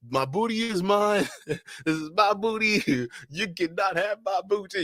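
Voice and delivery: high, drawn-out cartoon protest; Tom DeBoer. Streamer quoting a Boondocks character, high indignant impression. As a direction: pitch it way up, indignant and slow. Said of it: "Tom DeBoer from the Boondocks".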